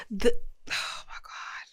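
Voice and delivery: breathless whispered oh my God; awed whisper. Real, not acted. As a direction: hush it out in awe.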